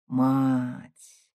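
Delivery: lightly tender, drawing the word out. A narrator's reading. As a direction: son softening toward his mother, a touch tender. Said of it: "нежно протянул он".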